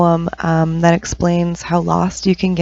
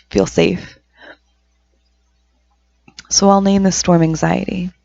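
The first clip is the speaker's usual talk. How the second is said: measured recital, long pauses between verses; poem reading. Acted. Poet reading on anxiety as a tornado, measured poem reading. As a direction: recite the verse deliberately, pausing after each image. Reads own poem aloud.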